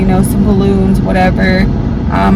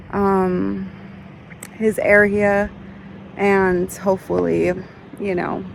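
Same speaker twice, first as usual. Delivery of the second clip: quiet; 6 dB quieter than usual. Real, not acted. Quiet vlog at the grave.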